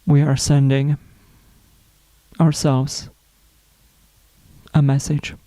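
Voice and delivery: unhurried spiritual reflection, long pauses between phrases; guided meditation. Acted. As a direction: let each phrase settle before the next. Leads a self-love reflection.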